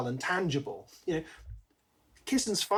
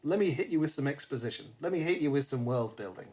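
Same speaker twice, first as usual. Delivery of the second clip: mock exposition dump; faster than usual. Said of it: "without it being a".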